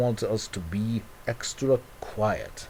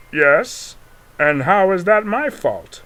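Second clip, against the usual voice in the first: high, loud and defensive; high defensive shout; 8 semitones higher, 8 dB louder, slower than usual. Pretend. Global shouting back at Jack, high defensive. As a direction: yell it back high, refusing blame. Acted quarrel between toy characters.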